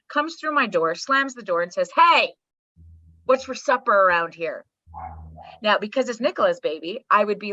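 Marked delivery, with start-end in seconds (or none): 1.9-4.6 put-on loud "Hey" from a child barging in; lightly voiced demanding kid, punching the greeting; 闯进门的孩子. Acts child barging through door.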